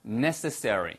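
NECESSARY said slowly and clearly; teacher modelling "necessary"; pronunciation demo. Shown as a demonstration. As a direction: sound out "necessary" syllable by syllable for learners. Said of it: "발음도요".

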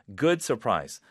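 ordinary talk, nothing marked

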